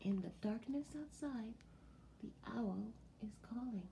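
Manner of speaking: softly, like the farm is asleep; hushed whisper. Shown as a demonstration. To children at bedtime, a hushed whisper. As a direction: drop to a soft bedtime whisper on the owl line. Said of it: "repeated more softly".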